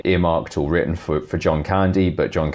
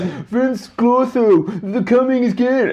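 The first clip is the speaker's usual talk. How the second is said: slow, raised proclamation in a possessed voice; possessed keymaster; slower than usual. Acted. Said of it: "when he becomes the, the, the keymaster".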